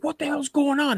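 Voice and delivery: high-pitched mock alarm; acting out a startled friend; alarmed demand. Friend runs in after the scream.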